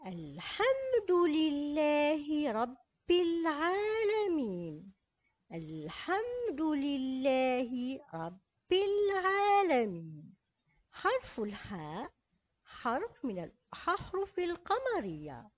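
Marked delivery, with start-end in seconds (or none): 0.0-10.4 الحمد with the lam clearly sounded, slow; moon-letter lam. Shown as a demonstration. Teacher reciting for pupils, slow. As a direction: read الحمد لله slowly, lam clear. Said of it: "نقرأ".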